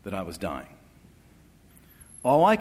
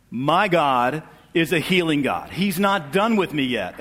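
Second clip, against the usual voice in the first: louder, slow, firm proclamation of faith; retelling a bold stand of faith to the doctor; defiant declaration; 4 semitones higher, 5 dB louder, slower than usual. Retold or imitated. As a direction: plant each word like a vow.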